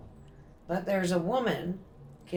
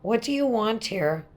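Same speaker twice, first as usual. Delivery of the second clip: loud, higher demand to a spirit; calling out to a ghost; 7 semitones higher, 10 dB louder than usual. Real, not acted. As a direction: call out firmly into the room.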